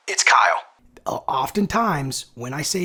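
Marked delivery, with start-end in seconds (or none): 0.1-0.6 lower, firmer, louder name drop; deeper authoritative. Shown as a demonstration. Cold caller dropping his name to the gatekeeper, authoritative. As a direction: say your name flat and commanding. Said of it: "in a very authoritative way".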